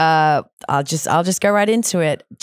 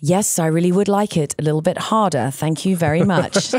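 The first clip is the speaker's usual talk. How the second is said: newsreader voice at home; 2 semitones higher than usual. Shown as a demonstration. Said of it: "And I'm like".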